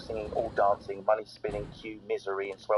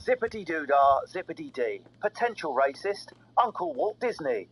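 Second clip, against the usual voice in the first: punchy, higher-pitched host intro; lively scripted radio opener; comedy show intro; 4 semitones higher than usual. Acted. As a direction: announce the show with showy energy.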